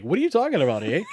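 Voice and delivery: Canadian friend. Retold or imitated. Imitating his Canadian friend for his co-host, mock Canadian accent. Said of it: "My Canadian friend Matt will be like".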